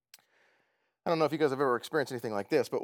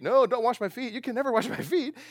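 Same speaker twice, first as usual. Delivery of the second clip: higher, indignant protest; indignant refusal; 7 semitones higher than usual. Acted. Preacher voicing Peter refusing to let Jesus wash his feet, high protest. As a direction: refuse him like a stubborn kid, pitched up.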